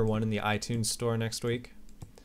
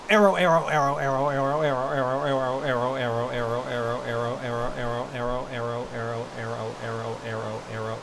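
repeating a word. Shown as a demonstration. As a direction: repeat arrow until it loses meaning, trailing off. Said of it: "It doesn't even sound like a word anymore".

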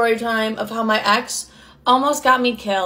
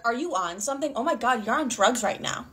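softer, mildly suspicious question; hushed accusation; 7 dB quieter than usual. Retold or imitated. Imitating mom's boyfriend accusing her, hushed. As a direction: drop the volume as you accuse.

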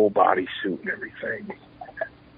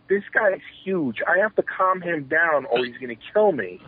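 higher-pitched retold worry; mildly alarmed inner voice; 6 semitones higher than usual. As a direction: play a mild mock panic to yourself. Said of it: "In the back of my mind".

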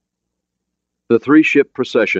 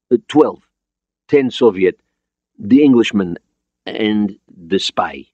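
put-on higher, Russian-accented listing; foreign accent; 4 semitones higher, 4 dB louder than usual. Borodin listing the men aboard, Russian accent. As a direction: count them off deliberately, Russian accent. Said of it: "He had an accent, but his English was understandable".

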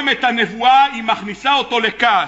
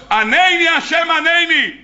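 urgent plea; 7 semitones higher, slower than usual. Acted. Elijah begging God to answer him, urgent high cry.

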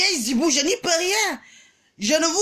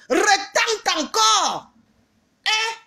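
slow taunting dare; 7 semitones higher, much slower than usual. Real, not acted.

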